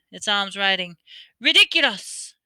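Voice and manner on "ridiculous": high, loud cry; cried out. A narrator's reading. Girl casting at the mummy, crying out loud. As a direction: fling the spell out. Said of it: "cried Parvati".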